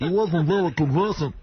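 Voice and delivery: muffled, talking round a marker; words blocked by something in mouth. Acted. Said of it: "your fist in your mouth on that impression".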